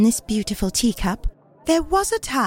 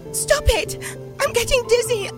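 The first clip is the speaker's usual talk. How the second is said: very high-pitched storybook shriek at usual volume; acted scream; 13 semitones higher than usual. Teacup screams on the spinning wheel, high acted distress. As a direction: squeal it as a dizzy teacup. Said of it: "I screamed".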